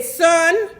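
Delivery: put-on gently steer the boy away, a touch of grandma; old lady. Old lady advising the singer to leave, lightly voiced. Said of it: "The little white old lady said".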